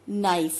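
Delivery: 'नाइफ' starting straight on n; silent K. Shown as a demonstration. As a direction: say 'नाइफ' with no k sound. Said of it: "के is silent word". ('नाइफ' बिना क ध्वनि के)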